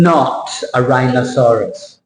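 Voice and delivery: "rhinoceros" said slowly as rhino-SAUR-us; common mispronunciation. Shown as a demonstration. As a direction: rhyme "rhinoceros" with dinosaurus. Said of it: "Not rhinoceros".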